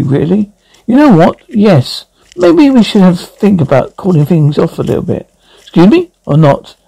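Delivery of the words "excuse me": offended surprise. Acted. Offended reaction to breakup suggestion.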